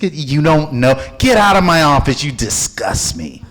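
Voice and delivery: mock angry dismissal; imitating Bob's contempt. Bob throwing the speaker out of his office, mock fury. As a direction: throw him out with disgust. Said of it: "He goes".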